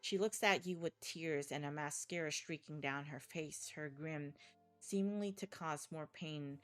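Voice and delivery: dark, measured horror narration; story narration. A narrator's reading. Narrator telling the player a horror scene. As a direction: read it like a grim thriller.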